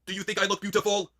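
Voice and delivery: high-pitched stagey diva; Charlotte Flair. Acted. Charlotte asking her date about her looks, high and affected. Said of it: "Impression Charlotte Flair goes on a date".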